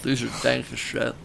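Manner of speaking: chewing chips while talking; mumbled through a mouthful; mouth full. Real, not acted. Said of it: "Sorry, I have chips in my mouth".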